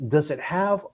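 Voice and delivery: put-on a light Boston accent on the brothers' question. Radio host asking the caller, a touch of Boston accent. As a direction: ask it with a hint of Boston. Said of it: "this is my best Boston accent".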